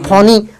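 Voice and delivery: "फोनी" with the final e sounded as ee; "फोनी", silent e wrongly voiced; wrong reading. Shown as a demonstration. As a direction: misread it as two-syllable "फोनी". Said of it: "हमको ये नहीं पढ़ना है".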